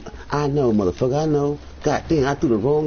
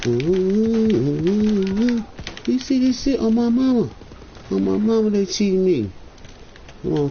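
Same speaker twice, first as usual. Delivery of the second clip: excited cheering; 7 semitones higher than usual. Real, not acted. Cheering teammate on live.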